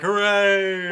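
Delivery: hammed-up mob cheer; high, mock-jubilant villagers celebrating; crowd cheering. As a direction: cheer like a gleeful witch-burning crowd. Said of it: "everyone's like".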